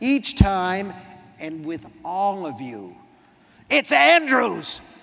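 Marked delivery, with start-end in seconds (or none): 3.7-4.8 sudden, startling, rough, raised bellow. Reading a story aloud, a character corrects his name: bellowing. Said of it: "He bellows it".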